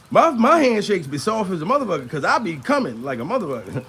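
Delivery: ordinary talk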